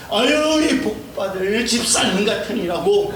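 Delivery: high, slow, laughing tease; laughing mock scolding. Shown as a demonstration. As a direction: scold with a laugh, full of affection. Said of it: "이렇게 하셔야 되는 거예요". (웃으며 높고 느리게 놀리듯)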